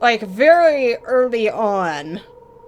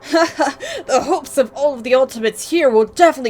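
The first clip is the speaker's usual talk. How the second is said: laughing declaration. Acted. Reading a bold declaration with a laugh.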